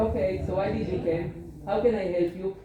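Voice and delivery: a touch of brusque impatience; mildly cold clinic questions; lightly curt doctor. Shown as a demonstration. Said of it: "an awful person that is talking like this".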